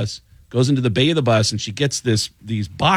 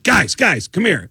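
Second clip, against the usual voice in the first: retold calling out; 7 semitones higher, 4 dB louder, slower than usual. Bandleader voiced calling everyone over.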